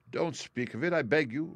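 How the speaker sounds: a modest hero, pitched a little up; Tin Woodman, modest. A narrator's reading.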